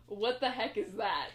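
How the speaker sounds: quoting the line through laughter; retold line with a laugh; laughing quote. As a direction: laugh while repeating his words. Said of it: "he literally says".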